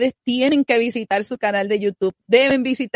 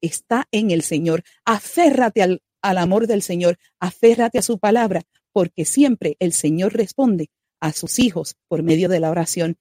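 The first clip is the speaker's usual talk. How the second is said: smooth announcer read over music; radio intro read. Acted. Host introducing the guest to listeners, announcer read. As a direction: present the guest like a broadcast host.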